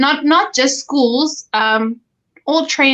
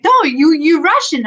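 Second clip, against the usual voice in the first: higher, louder imitation of a pushy old auntie; insistent old ayi; 6 semitones higher, 4 dB louder than usual. Old ayi at the ice rink insisting she's Russian, higher and louder. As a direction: mimic the ayi stubbornly correcting her.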